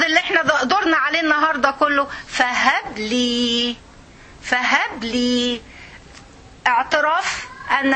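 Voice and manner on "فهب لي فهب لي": slow pleading. Shown as a demonstration. Pleading the key Quranic word.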